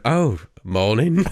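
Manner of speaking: a slow, drawn-out "Oh, morning."; slow retold greeting. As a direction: stretch "Oh, morning" out as if nothing is wrong. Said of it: "he just went".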